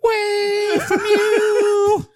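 shout. Real, not acted. Blindfolded, pushing someone away.

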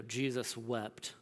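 Jesus wept, each word slowed and given weight; reverent, slow reading of the verse; slow weighty quote. Shown as a demonstration. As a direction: let "Jesus wept." land slowly and simply. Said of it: "that comes across very different than".

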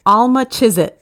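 sounding out phonetic Cockney, "Alma Chisit"; careful Cockney try at "Alma Chisit"; Cockney attempt. Shown as a demonstration. Player reading the game's next phrase, Cockney attempt. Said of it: "speaking the phrase with a Cockney".

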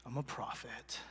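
tiny, low mumbled answer; too quiet to hear. Acted. Elijah timidly answering God, barely audible. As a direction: barely let the words out. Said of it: "Say it louder".

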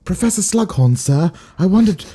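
a hint of prim English schoolgirl; lightly voiced English pupil asking sir; posh English accent. To Professor Slughorn, in a light English schoolgirl accent. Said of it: "most accurate English accent".

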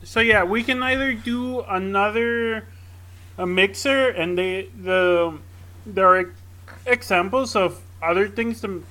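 talking through hiccups; holding back hiccups mid-sentence. Real, not acted. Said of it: "sorry, I have hiccups in the middle of talking".

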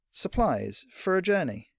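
put-on high, slow boy's voice; tentative young messenger; hesitant boy. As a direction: ask slowly and politely as a lad. Boy's own first asking.

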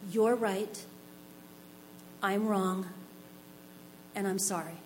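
soft, calming apology, fading away; quiet and soothing. Retold or imitated. Referee calming down the furious player, quietly soothing. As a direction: talk him down gently, voice dropping. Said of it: "I said quietly to calm him down".

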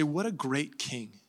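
soft, wondering gratitude; acted grateful beggar, quietly amazed; humble awe. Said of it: "the more right reaction".

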